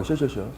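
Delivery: 시엇 with a slack jaw and a slushy sh. Shown as a demonstration. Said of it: "이건 무시할 게 아니라고".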